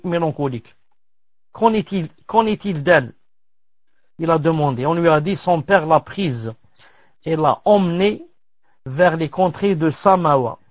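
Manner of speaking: measured reading of a tale; story narration. Acted. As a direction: read the tale out phrase by phrase, with pauses. (lecture posée d'un récit)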